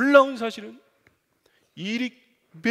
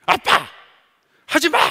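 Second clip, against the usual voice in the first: louder, much higher protest; annoyed shout; 10 semitones higher, 13 dB louder than usual. Retold or imitated. Son refusing dad's kiss, whiny loud protest. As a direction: push dad off with a whiny yell. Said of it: "얼마나 비싸게 구는지".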